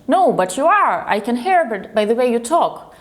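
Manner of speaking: insistent. Retold or imitated. Man insisting to three women that they are Russian, insistent. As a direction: imitate a man who won't take no. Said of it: "he was quite persistent".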